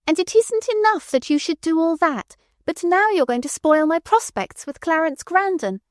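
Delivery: high, rising furious tirade; growing fury. A narrator's reading. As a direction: build the rage with every word. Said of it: "went on more wildly than before, her fury growing".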